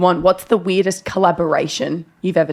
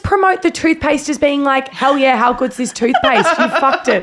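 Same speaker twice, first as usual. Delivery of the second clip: exasperated; 7 semitones higher than usual. Retold or imitated. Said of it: "I went".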